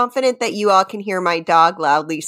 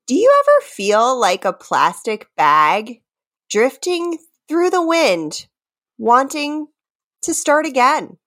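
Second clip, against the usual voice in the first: 1 dramatic reading; 6 semitones higher than usual. Shown as a demonstration. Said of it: "just straight reading, not singing".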